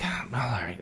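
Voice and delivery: hushed, whispered surrender; reluctant giving in. Retold or imitated. Dave finally giving in to the nudists, reluctant. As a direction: give in very softly.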